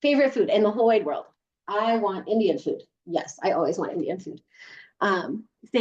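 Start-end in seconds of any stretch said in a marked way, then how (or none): 1.7-2.8 demo statement. Shown as a demonstration. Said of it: "think of your favorite food".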